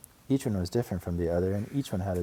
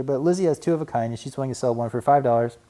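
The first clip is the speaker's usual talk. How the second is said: put-on little boy voice; 6 semitones higher, 6 dB louder than usual. A narrator's reading. Brother cub voice.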